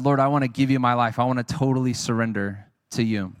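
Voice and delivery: low, subdued prayer of surrender; retold prayer.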